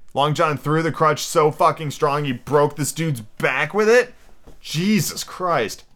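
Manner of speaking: incredulous aside leaping high at the end; real disbelief, then a drawn-out oath; astonished. Real, not acted. Reader's amazed aside on the story.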